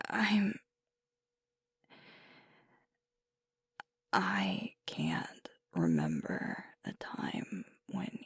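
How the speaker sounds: high, halting, close to tears; choked up. Acted. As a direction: struggle to get the words out, with long pauses. Tearful about loved one moving away.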